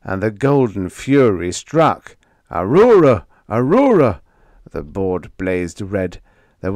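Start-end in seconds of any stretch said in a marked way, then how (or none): 2.5-4.2 loud, high cry of a name; desperate shout. A narrator's reading. Crew screams during attack.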